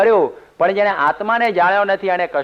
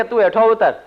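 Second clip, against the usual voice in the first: higher, commanding; lazy man bossing the camel driver, voice raised high; bossy order; 6 semitones higher, 3 dB louder than usual. Acted.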